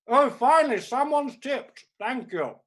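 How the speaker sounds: high, loud, slow cry of relief; relieved delight. Real, not acted. To the audience after the first tip, loud relieved cry. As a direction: let relief burst out.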